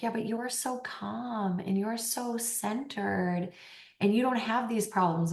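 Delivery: imitated soft admiration. People meeting the coach now, imitated soft admiring tone. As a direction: gently gush in someone else's voice.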